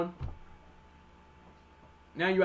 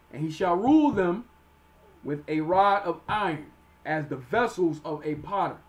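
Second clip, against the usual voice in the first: emphatic, measured Bible reading; scripture reading; 4 dB louder than usual. Acted. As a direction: read the verse out with preacher's weight. Reads scripture aloud.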